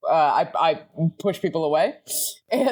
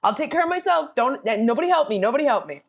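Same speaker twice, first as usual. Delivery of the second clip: 1 mock stubborn independence; 7 semitones higher than usual. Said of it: "I'm like".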